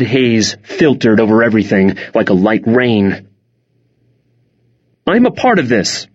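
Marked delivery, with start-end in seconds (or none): 5.1-6.1 higher-pitched, insistent protest. A narrator's reading. Mom claiming her part in the argument, insistent. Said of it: "Mom insisted".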